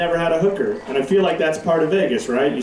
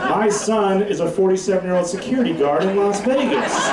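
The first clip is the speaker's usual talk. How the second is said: higher, lamenting mom voice; moaning mother; 5 semitones higher than usual.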